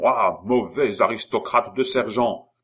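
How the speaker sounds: loud, indignant outburst; yelled insult. A narrator's reading. Cobbler insulting the sergeant, yelling. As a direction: hurl the insult at full voice. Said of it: "hurla Simon".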